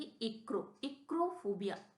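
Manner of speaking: clearly pronounced "एक्रो", building to "एक्रोफोबिया"; teacher reading out "एक्रोफोबिया" for learners; pronunciation demo. Shown as a demonstration. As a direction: model "एक्रो", then "एक्रोफोबिया". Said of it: "इसको हम क्या पढ़ेंगे".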